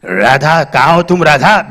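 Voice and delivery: low, slow filmy hero call; Raaj Kumar calling. Retold or imitated. Wounded Raaj Kumar calling for Radha, low and slow. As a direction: call for her with lordly swagger. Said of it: "घायल राजकुमार आवाज लगा रहा".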